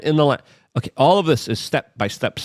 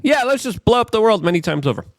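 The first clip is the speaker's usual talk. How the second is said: mocking voice; 13 semitones higher, 4 dB louder than usual. Mocking Europe's escalation talk.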